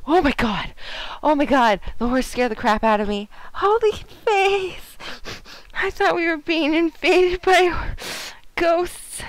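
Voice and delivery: loud, high-pitched startled outcry; startled shriek. Real, not acted. Player jumpy from a horse mistaken for a burglar, startled yelling. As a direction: cry out in alarm, voice jumping up.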